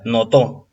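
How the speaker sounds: "notó" stressed on final TÓ; stress on last syllable. Shown as a demonstration. Teacher checks the word is aguda, stressed last syllable. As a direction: lean on TÓ in "notó". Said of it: "ajá, aguda".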